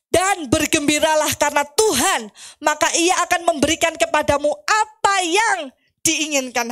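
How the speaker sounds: rallying read-along voice; scripture proclamation. Real, not acted. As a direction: proclaim the verse to the congregation.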